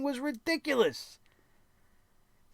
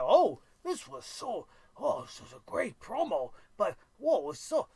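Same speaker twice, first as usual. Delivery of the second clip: mocking fans. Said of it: "I see everybody on social media".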